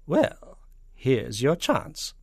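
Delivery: loud, slow, menacing snarl. A narrator's reading. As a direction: snarl it as a drawn-out challenge. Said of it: "snarled Miss Tibbs".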